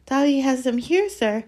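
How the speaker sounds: high pleading house-elf; squeaky house-elf. Acted. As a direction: plead like a nervous little elf. Dobby speaking, elf voice.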